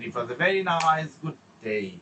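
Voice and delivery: slow, with "very nice" lifted and "day" dropping; stress on content words. Shown as a demonstration. Teacher demonstrating emphasis on content words, stressed "very nice". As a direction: lean on "very" and "nice", slowly. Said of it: "content ওয়ার্ডে আপনি emphasise করছেন".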